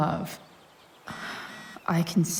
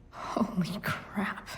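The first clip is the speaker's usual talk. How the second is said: awed surprise; 3 semitones higher, 5 dB quieter, slower than usual. Acted. Stunned by what he finds.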